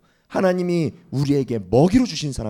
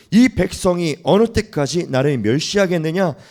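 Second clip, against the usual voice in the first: loud, stern rebuke, slowing at the end; God's anger; 3 semitones higher, 5 dB louder than usual. Acted. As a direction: rebuke a faithless people. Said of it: "화가 나시는 하나님". (진노하신 하나님이 백성을 꾸짖듯 크고 엄하게)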